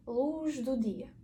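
«Луж» зі дзвінким Ж перед Д; вимова з ж. Shown as a demonstration. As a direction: say "Луж дудія" slowly, voiced zh in "Луж". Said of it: "воно буде читатися як українська ж". («Луж дудія»: повільно, чітке українське ж)

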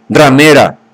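a jealous lover yelling insults; angry shout. Acted. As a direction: hurl the insults at her. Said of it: "gritó".

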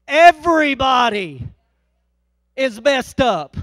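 spaced out and deliberate, every word landed; slow it right down to nail the point; slow emphasis. Acted. Preacher drives point home.

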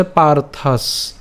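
"পার্থাস" drawn out, closing on the dental s; pronunciation demo. Shown as a demonstration. Teacher showing how the word sounds, slow demo. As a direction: slowly stop "পার্থাস" on its s. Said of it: "তার উচ্চারণটা কেমন হচ্ছে?".

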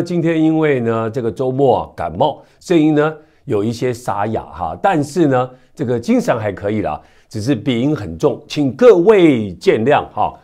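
hoarse and stuffy from a cold; stuffy nose. Real, not acted. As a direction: talk through a blocked nose, a bit hoarse.

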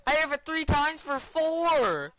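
high, drawn-out protest; worked-up gamer protest; indignant insistence. Real, not acted. Insisting on the hits.

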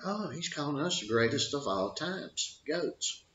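mildly excited imitation of flattered athletes; imitating flattered fighters. Fighters misreading the nickname, acted.

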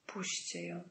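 bardzo cicho, słabym głosem rannego; cichy charkot. A narrator's reading. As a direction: wycharcz prośbę ledwo słyszalnie. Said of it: "wycharczał". (słaby, charczący półgłos rannego)

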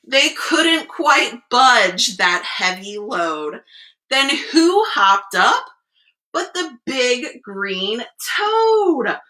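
expressive storyteller with stretched key words; picture-book reading. A narrator's reading. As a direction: read the rhyme aloud to small children. Reads picture book to children.

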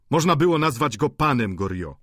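a touch of indignant call; mild exclamation. A narrator's reading. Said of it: "zawołał powstając".

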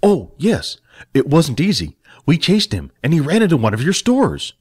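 put-on a young helper recounting; Jack telling.

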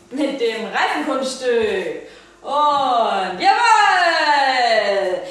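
carnival barker. Pretend. Circus announcer for the pet.

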